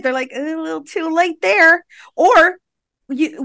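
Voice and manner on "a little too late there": mock refusal. Acts out staff refusing epidural.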